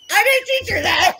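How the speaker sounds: loud, high-pitched retold disclaimer; protesting disbelief. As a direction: deny all blame, voice jumping up. Acting out her shocked reaction.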